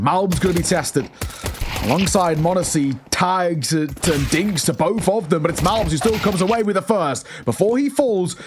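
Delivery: excited live play-by-play; esports caster. Real, not acted. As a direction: call the clutch as it unfolds.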